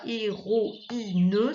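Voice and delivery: "héroïne" sounded as hé-ro-i-ne; "héroïne" with i separate and final ne voiced; syllable by syllable. Shown as a demonstration. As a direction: mark every syllable of "héroïne". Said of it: "c'est carrément coupé".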